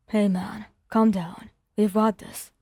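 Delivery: lightly voiced calm friend; a touch of steady reassurance; steady reassuring. Kirishima calming Bakugo in training, lightly reassuring. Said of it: "his voice steady and reassuring".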